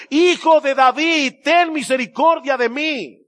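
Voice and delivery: high, loud, slow plea for mercy; desperate cry. Retold or imitated. Beggar shouting over the crowd, high and desperate. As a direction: cry out over the crowd trying to hush you. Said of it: "comenzó a gritar mucho más".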